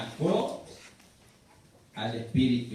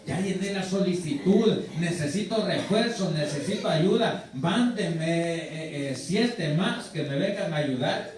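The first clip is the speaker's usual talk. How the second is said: louder urgent radio request; pilot cockpit headset; 3 semitones higher, 4 dB louder than usual. Acted. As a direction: call in backup over the radio. Demon requests reinforcements by radio.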